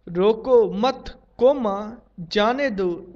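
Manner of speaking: "रोको मत" slowed, then "कोमा" spoken as the break; group रोको with मत, break before जाने; pause after मत. Shown as a demonstration. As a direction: read out the comma after मत, then finish जाने दो. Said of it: "स्पष्ट वाक्य".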